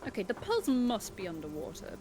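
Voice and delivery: mock-posh British narrator. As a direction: lightly put on a plummy English accent. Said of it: "you started so posh".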